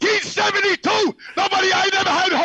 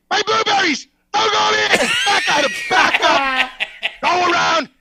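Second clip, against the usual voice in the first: frantic yell. Retold or imitated. Herb yelling at shopper.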